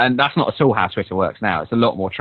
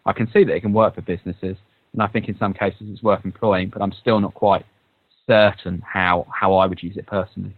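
transistor radio. Real, not acted. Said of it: "the quality of your voice has gone all sort of transistor radio-ish".

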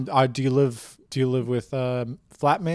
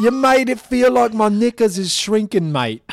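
hammed-up cockney; 8 semitones higher, 9 dB louder than usual. Keeps cockney voice.

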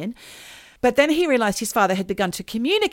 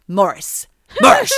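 spooky voice; 10 dB louder than usual. Retold or imitated. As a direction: call the name like a ghost. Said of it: "like that".

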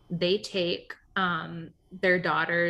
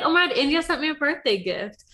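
excited; 8 semitones higher, 4 dB louder than usual. Retold or imitated. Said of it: "I'll be like".

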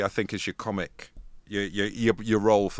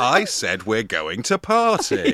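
loud party shout; 4 semitones higher, 8 dB louder, slower than usual. Acted. Acting a partying character.

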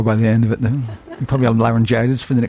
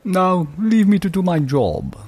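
yawning voice; 6 semitones higher, slower than usual. Acted. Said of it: "The man yawns and says".

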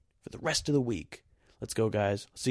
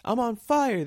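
much higher, loud cry of fire; panicked shout; 12 semitones higher, 8 dB louder than usual. Retold or imitated. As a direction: scream it like you're burning. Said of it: "that's what Steve Carell says in this shot".

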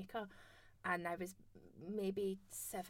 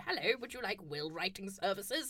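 put-on cold-call voice. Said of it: "try a different voice every call".

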